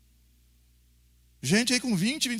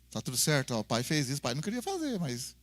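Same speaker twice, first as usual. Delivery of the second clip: gentle father; 7 semitones lower, 6 dB quieter than usual. Retold or imitated. Pai consola filho depois.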